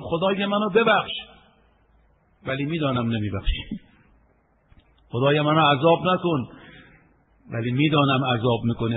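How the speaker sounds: lightly mocked pleading prayer at the Kaaba; half-hearted imitation of a man begging God; imitating a doubtful prayer. Man praying beside the Kaaba without hope, mock pleading. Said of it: "آمده بود کنار کعبه میگفت".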